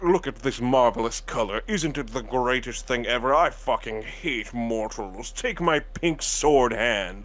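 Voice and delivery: theatrical villain gone grandiose; Goku Black. Retold or imitated. Quoting Goku Black gone pink, grandiose drawn-out impression. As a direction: relish it, drawing out the last phrases. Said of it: "he fucking goes pink and he's like".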